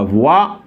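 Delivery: "voix" as vwa, rising at the end; pronunciation demo. Shown as a demonstration. Teacher showing the class the sound, "voix" as vwa. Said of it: "on le prononce comme ça".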